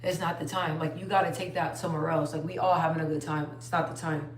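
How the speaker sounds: low, hushed aside in a friend's ear; mock whisper, voice dropped low; retold whisper. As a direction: imitate a discreet, quiet telling-off, soft and low. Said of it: "I whispered in her ear".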